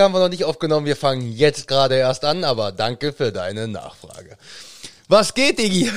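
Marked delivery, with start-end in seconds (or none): 5.1-5.9 playful shout. Acted. Playful greeting to friend.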